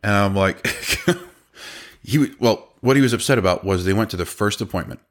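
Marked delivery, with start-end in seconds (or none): 0.7-1.2 short chuckle. Real, not acted. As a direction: chuckle at the memory. Recalling being screamed at.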